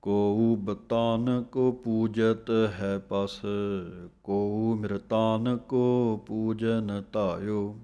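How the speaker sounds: slow, measured recital of the whole verse; scripture recitation. Shown as a demonstration. Teacher reciting the finished verse for students, slow. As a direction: read the full verse with care, slowly.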